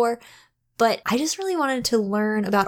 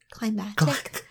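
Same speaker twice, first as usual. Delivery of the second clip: quieter, puzzled self-query; doubting own word; 4 dB quieter than usual. Real, not acted. Host second-guesses her word for climaxes, doubtful echo. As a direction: test the word CLIMACTIC as if unsure it exists.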